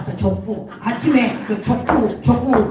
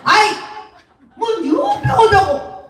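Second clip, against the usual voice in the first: scolding Jeolla mother-in-law; 8 semitones higher than usual. Acted. Mother-in-law scolds over phone, high indignant Jeolla dialect. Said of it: "전라도 시어머니가".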